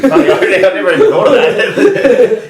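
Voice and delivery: laughs through it, slow; laughing. Real, not acted. To co-host about the prank, laughing slowly. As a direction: caught off guard, laughing it out.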